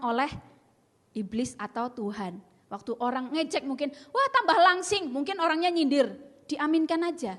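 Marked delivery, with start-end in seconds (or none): 4.1-5.1 teasing mock compliment.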